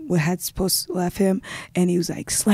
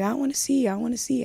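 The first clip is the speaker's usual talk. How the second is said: lightly voiced insistent child, higher; retold little brother; 5 semitones higher than usual. Little brother wanting to look in the mirror, lightly imitated higher voice. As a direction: imitate a child's plea, pitched up. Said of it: "He's like".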